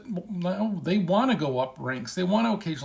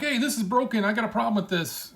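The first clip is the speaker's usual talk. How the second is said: half-hearted yelling at the company; mock yell; 5 semitones higher than usual. Player yelling at Valve about a bug, mild mock yell. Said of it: "you yell at it".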